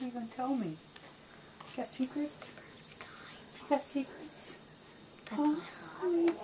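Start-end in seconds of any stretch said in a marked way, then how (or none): 0.7-4.6 soft whisper. Real, not acted. Cooing secrets to baby.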